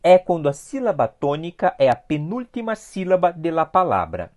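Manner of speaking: ordinary talk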